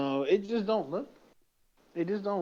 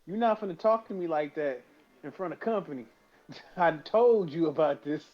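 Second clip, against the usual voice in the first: higher, louder mock scolding; 4 semitones higher, 3 dB louder than usual. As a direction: tell off the cat like a stern parent. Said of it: "We're like".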